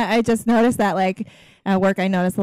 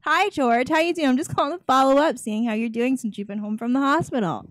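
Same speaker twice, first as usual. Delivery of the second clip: role-played follow-up call; 3 semitones higher than usual. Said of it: "let's play it out".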